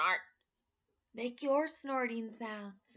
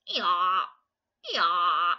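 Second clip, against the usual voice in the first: loud hee-haw; loud donkey call; donkey bray; 5 semitones lower, 14 dB louder than usual. Acted. Donkey sound in story.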